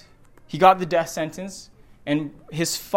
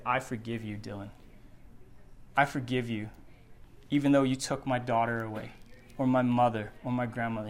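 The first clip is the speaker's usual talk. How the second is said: much softer, tender and hushed; preacher voicing grieving families, very soft; quiet forgiveness; 6 semitones lower, 8 dB quieter than usual. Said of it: "time and time again they say".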